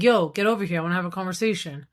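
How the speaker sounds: rough and impatient, then rushed; blunt summons. Shown as a demonstration. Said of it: "Instead of being like".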